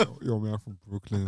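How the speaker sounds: put-on Brooklyn accent. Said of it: "let's get your New York".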